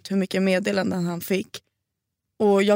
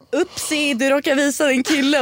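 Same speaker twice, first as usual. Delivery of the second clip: higher, sing-song teasing voice; mocking taunt; 6 semitones higher than usual. Mocking the TikTok exposer, high sing-song taunt. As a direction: taunt like a gloating internet troll. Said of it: "och bara".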